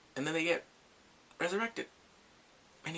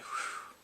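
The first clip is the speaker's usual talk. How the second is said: breathy, wordless exhale of awe; blown-out whew; 4 dB quieter than usual. Retold or imitated. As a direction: let out a long whew. Reacting to a deep line.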